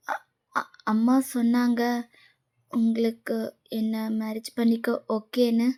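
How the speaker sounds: soft, slow, stammered start; timid hesitation. Acted. Girl asking him about agreeing to marry her, timid hesitation.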